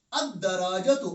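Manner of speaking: "अद्दराजतु" with silent L and doubled D; teacher's model of "अद्दराजतु", double D; correct assimilated reading. Shown as a demonstration. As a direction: hold the D straight after the A in "अद्दराजतु". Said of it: "हमने पढ़ा अद्दराजतु".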